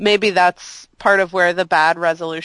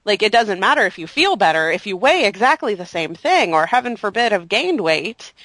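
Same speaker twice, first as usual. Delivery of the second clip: sarcastic. Real, not acted. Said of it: "That was sarcasm".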